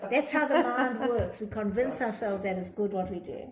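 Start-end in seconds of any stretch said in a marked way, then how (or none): 0.1-1.4 still laughing. Real, not acted. Laughing after the joke.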